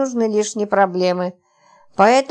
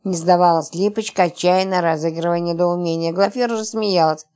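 plain reading voice

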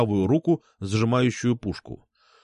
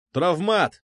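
higher shouted call; 6 semitones higher than usual. Acted. Officer overhead calls out the weapon type, shouting. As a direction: call out it's only a rubber-bullet gun. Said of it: "крикнули надо мной".

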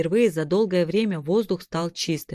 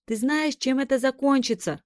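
cried out; 8 semitones higher than usual. A narrator's reading. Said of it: "выкрикнула Кира".

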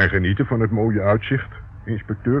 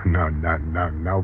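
laughing; 4 semitones lower than usual. Acted. Sarcastic chuckle at inspector.

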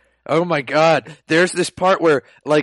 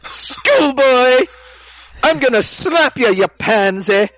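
much higher and louder mock schoolgirl yell; schoolgirl shout; 12 semitones higher, 6 dB louder, slower than usual. Schoolgirl threatening Ryo, hammed-up high yell. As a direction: screech it like the game's angry girl. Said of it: "Okay, I'll do it in a quieter voice".

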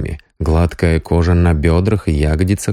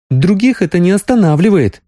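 much higher playful disbelief; teasing; 12 semitones higher than usual. A narrator's reading. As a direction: call his bluff playfully. Sonya teasing.

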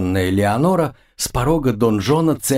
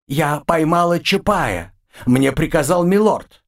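panicked trapped animal; 6 semitones higher than usual. Acted. Demoness pleads at crossbow point.

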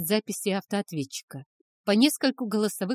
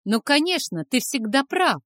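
higher, louder sarcastic yell; sarcastic shout; 7 semitones higher, 6 dB louder than usual. A narrator's reading. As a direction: throw it at him with scorn. Angry teen yells at father.

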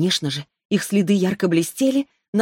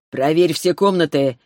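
commanding; 3 dB louder than usual. Acted. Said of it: "приказал Арис Лифтерио".

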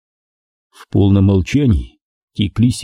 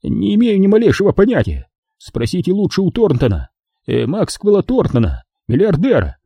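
nervous; 9 semitones higher than usual. Acted. Nervous mobster deflects.

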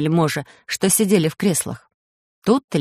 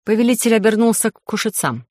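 usual speaking voice

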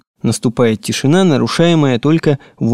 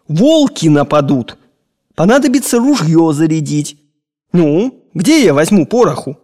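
put-on scolding old master; 5 semitones higher than usual. Old master scolding servant boy.

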